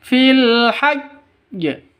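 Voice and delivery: fil hajj with the jj of hajj pressed hard and doubled; chanted fil hajj, hajj stressed and held. Shown as a demonstration. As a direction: lean heavily on hajj. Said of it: "Nah, seperti itu".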